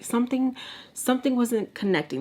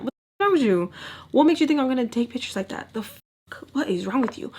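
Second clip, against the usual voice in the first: angry retort; 4 semitones higher than usual. Pretend. What she should have told him.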